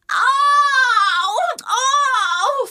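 imitating a daughter's dramatic ouch cries; mock pain wail. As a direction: play a child faking agony, wailing Au. Daughter acts pain at brushing.

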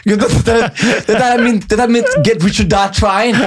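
high-pitched, incredulous retold protest; exasperated confrontation. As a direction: plead with your mates in comic disbelief. Konfronterer kompiser midt i showet. (oppgitt, lys og vantro stemme)

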